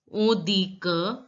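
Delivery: on dit que as "on dee kuh", slow; on dit que, drawn out and rising; silent final t. Shown as a demonstration. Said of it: "the last letter T is not pronounced".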